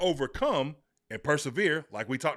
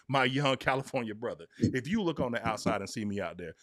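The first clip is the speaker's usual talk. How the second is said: lower, softer laid-back California voice; 5 semitones lower, 4 dB quieter than usual. Retold or imitated. Receiver asking the quarterback for the ball in a softer, lower California voice. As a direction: tone down the country twang, California-style. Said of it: "In my best version of a California voice".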